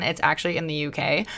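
usual speaking voice

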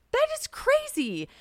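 very high, slow, amazed squeal; excited squeal. Retold or imitated. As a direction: stretch it out in high-pitched astonishment. Her excited echo of his reply.

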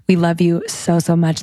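hoarse, nearly voiceless thanks; raspy whisper. Real, not acted. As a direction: voice going, whispered love. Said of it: "I'm losing my voice".

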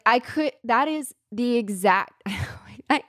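breathless, welling up, voice slipping to a whisper; real emotion catching the words; choked up. Real, not acted. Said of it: "I'm gonna cry".

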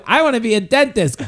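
put-on high whiny kid voice. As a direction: plead like a stubborn child. Kid answers in comic bit.

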